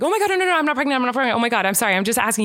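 high start, tumbling down; retold flustered rush to reassure; panicked backpedaling. Podcaster hurriedly assures husband she is not pregnant, panicked backpedaling. Hurried denial after scaring Eric.

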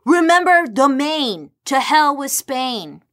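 high, slow, hammed-up battle shout; rally the crowd, all caps; mock rallying cry. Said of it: "again, all caps".

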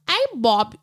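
badly faked Minnesota mom; attempted Minnesota accent. Mom calling her kid, failed Minnesota accent. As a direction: try a thick Minnesota accent, not quite landing. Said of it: "his mom had this thick, like, Minnesota accent".

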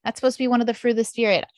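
frustrated at herself, asking what's wrong; exasperated inner voice. Retold or imitated. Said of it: "And I was like".

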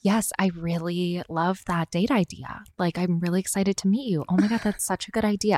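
put-on bubbly professional valley girl tone; corporate voice. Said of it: "pull out my corporate voice".

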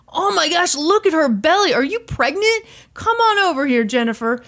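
mock the DJ's predatory sing-song sympathy; creepy DJ. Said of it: "that creepy thing where".

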